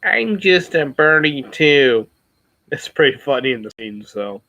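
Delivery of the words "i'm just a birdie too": movie line. Retold or imitated. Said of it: "it's like".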